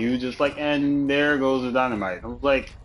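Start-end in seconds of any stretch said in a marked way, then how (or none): 0.6-2.2 deadpan mock announcement, drained of excitement; imitated unenthusiastic announcement. Imitating a Family Guy character's catchphrase, unenthusiastic. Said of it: "not even a little bit enthusiastic about it".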